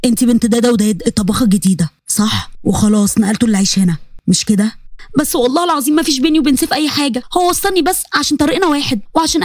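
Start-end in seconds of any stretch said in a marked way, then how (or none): 0.1-4.8 low, measured professor questioning her; cold professor. Acted. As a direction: interrogate her calmly from above.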